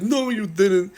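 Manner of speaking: high, loud squeaky denial; Gary's repeated shrill refusal; mock denial. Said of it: "He's like".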